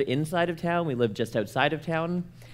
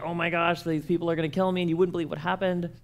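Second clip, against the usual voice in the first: higher, rushed panic; mock panic; 5 semitones higher, faster than usual. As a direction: blurt it all out to the principal, frantic. Panicked to principal.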